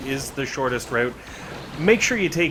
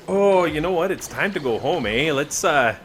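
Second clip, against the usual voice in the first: mock Canadian accent; 3 semitones higher than usual. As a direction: toss in a Canadian "eh" like a cheerful developer. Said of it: "I guess they're not Canadian".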